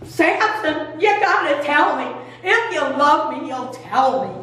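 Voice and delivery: put-on tearful pleading; lightly whined, fake-sob plea; mock crying. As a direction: imitate a weepy wife coaxing him. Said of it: "So she comes crying".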